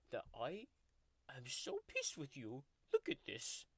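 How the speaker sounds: grumpy tiger mascot growling through a fake ASMR video; sulky tiger taking over the channel; tiger character voice. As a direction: play a cranky cartoon tiger throughout. Tiger character Oscar hosts the video.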